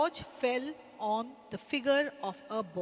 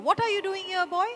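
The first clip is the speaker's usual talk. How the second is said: sharp scolding; 9 semitones higher, 7 dB louder, much faster than usual. Acted. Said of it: "So he went closer".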